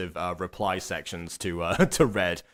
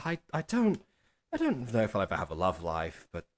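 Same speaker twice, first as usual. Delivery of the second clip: nervous, hesitant, stop-start stumbling with swooping pitch; 3 semitones higher, 3 dB quieter than usual. Discussing an animation scene, showing how the line should be delivered: nervous halting speech. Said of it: "I'm gonna speak like this and pause every now and then because I'm nervous".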